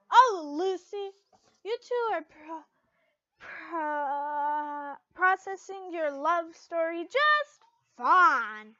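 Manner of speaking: loud, slow teasing gush; excited teasing. Acted. Levy gushing to Lucy, loud and slow. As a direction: draw out the tease.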